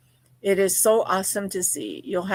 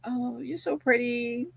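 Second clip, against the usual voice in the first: mock compliment; 4 semitones higher, 6 dB quieter than usual. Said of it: "just like".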